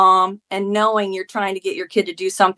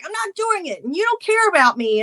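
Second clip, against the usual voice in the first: imitating angry son; 10 semitones higher than usual. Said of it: "argue and scream at each other".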